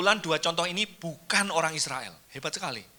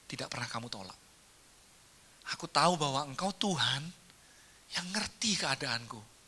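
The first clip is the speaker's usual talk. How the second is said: soft, humble inner thoughts; 4 semitones lower, 10 dB quieter than usual. Acted. Mother's silent thought to Jesus, soft and humble. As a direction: murmur it as a private prayer of the heart. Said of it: "Dalam hatinya".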